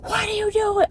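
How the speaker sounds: high, sharp furious question from another car; mock outraged shout at another driver; angry father yelling. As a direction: imitate a raging driver demanding an answer. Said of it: "the angriest person on earth".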